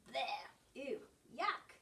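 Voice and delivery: grimace through each word of disgust. Acted. Bruce disgusted caring for goslings.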